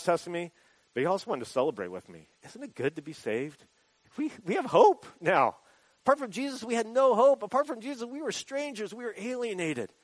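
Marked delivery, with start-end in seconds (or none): 2.4-9.9 joyful testimony. Retold or imitated. Retelling the man's celebration.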